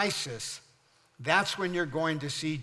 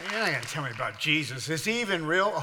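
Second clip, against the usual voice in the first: mock skeptic; 4 dB louder, faster than usual. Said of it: "let someone try and convince you".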